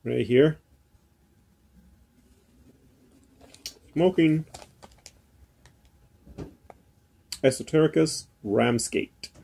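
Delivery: talking around pipe stem; pipe in mouth. Real, not acted. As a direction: teeth clenched on pipe. Seen 0: Pipe stem clenched in mouth throughout, bowl covers lips later.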